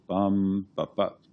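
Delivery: bum stressed, both bup short and lighter; one long beat then two quick short ones; dactyl beat. Shown as a demonstration. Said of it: "That's a dactyl".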